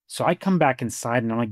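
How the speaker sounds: ordinary talk, nothing marked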